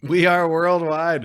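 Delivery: slow, loud and high echo; hype echo. Real, not acted. Echoing the cohost's hype, slow, loud and high. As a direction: drag it out like a chant.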